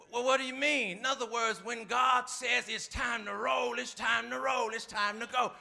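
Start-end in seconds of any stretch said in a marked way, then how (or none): none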